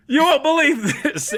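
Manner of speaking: put-on broad, high Australian accent, ramping up to a call; hammed-up outraged Aussie from The Simpsons; Australian parody accent. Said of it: "an entire parody of Australia".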